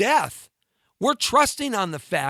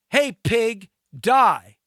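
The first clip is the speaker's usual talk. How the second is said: mock-hostile taunt, last word shouted louder; 2 semitones higher, 4 dB louder, much slower than usual. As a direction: spit the insult at the cops, punch die loudly. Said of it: "with a big poster around you said".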